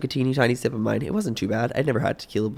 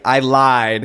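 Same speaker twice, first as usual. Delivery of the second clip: laughing; 6 dB louder than usual. Retold or imitated. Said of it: "she's like".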